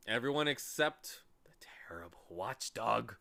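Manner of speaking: fearful whisper; shuddering. Acted. Lethargarians warning Milo of the watchdog, whispering in fear. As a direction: hush it out, afraid to be heard. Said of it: "shuddering in chorus".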